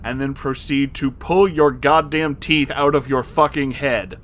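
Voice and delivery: escalating angry scolding; furious rant. Real, not acted. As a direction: shut him down hard, word by word. Building rant against creep.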